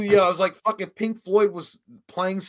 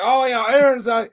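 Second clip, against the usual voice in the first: high, loud imitation of an excited groomsman; mock rowdy excitement; 7 semitones higher, 7 dB louder than usual. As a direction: cheer it out. Groomsman hooting at arrival, retold.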